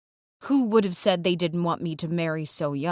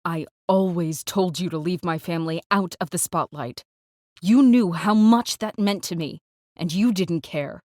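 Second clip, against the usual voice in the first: heated accusation, louder at its peak; raised voice; 4 dB louder than usual. Acted. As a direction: raise your voice in reproach. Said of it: "My voice rises".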